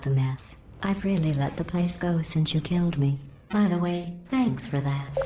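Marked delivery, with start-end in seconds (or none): 3.5-5.3 synthetic voice, dryly sarcastic; sarcastic thanks. Acted. AI thanking its killer, sarcastically.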